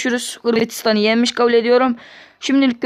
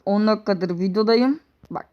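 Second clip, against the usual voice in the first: ordinary talk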